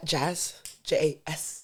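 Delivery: slow whispered voice. On her first podcast, acting out how she says her name in a club: acting out a whispered name. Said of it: "And like whisper it in their ear".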